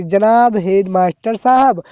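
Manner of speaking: slow, deliberate dictation of the salutation; dictating slowly. Shown as a demonstration. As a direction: spell out "जनाब headmaster साहब" word by word, slowly. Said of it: "जैसे इस तरीके से कि".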